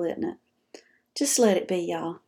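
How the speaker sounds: soft hushed calming whisper; soothing whisper. Real, not acted. Host calming frustrated caregivers in a whisper. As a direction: whisper to settle them down.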